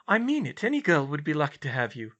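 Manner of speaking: put-on young woman's wry thought; Hermione voice.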